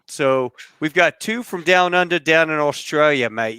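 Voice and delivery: put-on a deliberately horrible Australian accent; lightly put-on Australian accent, hamming up "mate"; bad Australian accent. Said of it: "in my horrible Australian accent".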